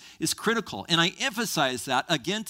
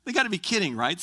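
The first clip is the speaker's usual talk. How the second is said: high disbelieving they gotta be kidding; mock incredulous question; 6 semitones higher, faster than usual. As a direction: scoff in disbelief, pitched up. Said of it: "I'm like".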